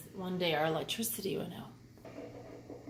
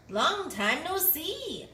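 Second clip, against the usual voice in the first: friendly hare; 6 semitones higher, slower than usual. Acted. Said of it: "says Hare".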